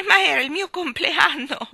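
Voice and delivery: put-on high, loud child's protest. Boy insisting to his nanny it was his birthday. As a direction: shoot up in outrage at the unfairness. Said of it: "protestò il bambino".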